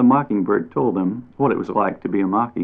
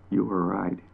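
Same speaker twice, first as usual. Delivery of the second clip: softer confiding aside; quiet confiding; 8 dB quieter than usual. A narrator's reading. Bat quietly confiding to chipmunk after leaving, softer. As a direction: say it just between us.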